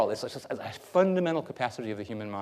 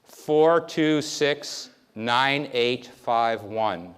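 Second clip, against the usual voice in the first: louder, every digit punched and spaced; a memory tester reading a digit string to a volunteer; 5 dB louder, much slower than usual. Shown as a demonstration. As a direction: call each number out clearly for recall. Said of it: "I'm gonna read to you numbers".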